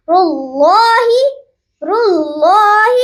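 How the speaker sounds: اللہ with the standing zabar held one alif long; one alif length. Shown as a demonstration. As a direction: stretch the lam of اللہ by one count. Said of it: "ایک الف کے برابر کھینچیں گے". (اللہ کو ایک الف کے برابر کھینچیں)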